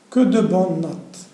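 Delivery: plus fort et lent, ravi; exclamation. Shown as a demonstration. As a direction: fais sonner l'admiration, en t'attardant. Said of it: "c'est phrase exclamative". (exclamation lente et forte d'admiration)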